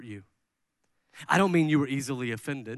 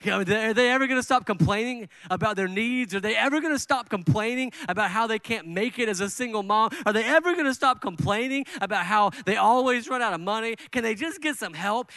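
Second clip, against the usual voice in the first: higher, louder exasperated complaint; exasperated inner voice; 6 semitones higher, 3 dB louder than usual. Retold or imitated. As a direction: voice the fed-up thought. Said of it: "and you think".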